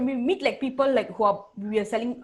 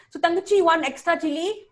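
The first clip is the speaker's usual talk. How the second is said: mock Indian accent; 6 semitones higher than usual. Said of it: "he just looks at you and say".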